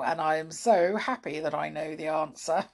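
giggling through the words; happy laughing delivery. Real, not acted. Happy she knows answer.

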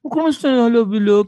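lightly voiced lover on the phone; mild mock sweet talk to a girlfriend. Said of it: "Basta babae kausap mo".

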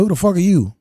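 angry retort thrown up high; retold outburst. Confronting stranger at accident scene.

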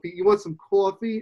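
imitated Jersey accent, "coffee" as "cawfee". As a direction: mimic a Jersey offer of "coffee" with an aw vowel. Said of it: "You got that Jersey accent".

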